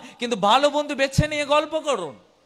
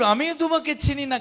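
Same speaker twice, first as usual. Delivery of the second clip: higher, firm voice of the Lord; firm God voice; 4 semitones higher than usual. Retold or imitated. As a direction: declare it firmly as God. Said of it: "প্রভু বলল".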